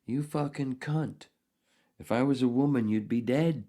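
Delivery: hammed-up indignant threat; mock angry retort.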